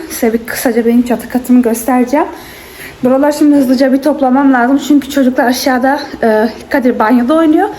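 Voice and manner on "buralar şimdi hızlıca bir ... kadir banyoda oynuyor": breathless after climbing the stairs; out of breath. Real, not acted. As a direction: talk while catching your breath. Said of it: "Nefes nefese kaldım".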